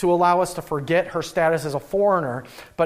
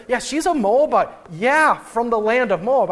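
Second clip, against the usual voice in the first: higher-pitched, pointed "Moabite" and "Moab"; emphatic; 5 semitones higher, 4 dB louder than usual. Retold or imitated. Field worker telling the boss she's a Moabite, emphatic. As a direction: underline "Moabite", then "Moab", as if stating the obvious. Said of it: "we hear in this emphasis again".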